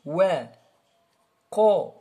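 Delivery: thin "Wa", then thick rounded "Qa"; light-heavy contrast. Shown as a demonstration. Teacher contrasts letters, light "Wa", emphatic "Qa". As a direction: keep "Wa" light and make "Qa" heavy. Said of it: "il est emphatique".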